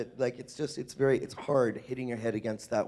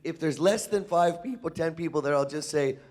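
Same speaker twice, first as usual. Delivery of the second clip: mock self-quote; 5 semitones higher, 4 dB louder than usual. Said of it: "I'm like".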